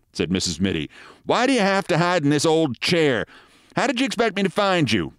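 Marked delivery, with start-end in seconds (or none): 1.2-5.1 high, complaining wife's voice; nagging wife. Acted. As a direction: scold your husband in a high voice. Wife scolds husband she found.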